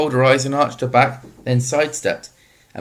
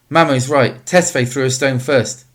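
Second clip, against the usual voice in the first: indignant; 3 semitones higher, 3 dB louder than usual. Acted. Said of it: "say indignantly".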